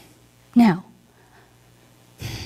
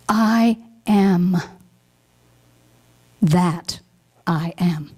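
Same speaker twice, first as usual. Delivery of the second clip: hushed whisper; 2 semitones lower, much slower than usual. Acted. Minister whispering the holy name. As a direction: breathe the phrase out.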